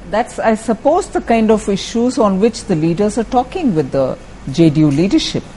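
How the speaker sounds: ordinary talk, nothing marked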